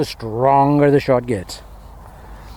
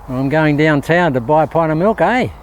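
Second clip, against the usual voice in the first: lightly imitated Northern Queensland speech; a touch of put-on Northern Queensland Aussie; Northern Queensland accent. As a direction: mimic a Northern Queenslander, lifting the final "eh". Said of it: "That's the Northern Queenslanders".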